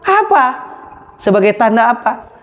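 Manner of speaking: high, pressing king's questions; king demanding why the young man weeps. Acted. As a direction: voice the king probing the prisoner. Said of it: "Cek raja teh".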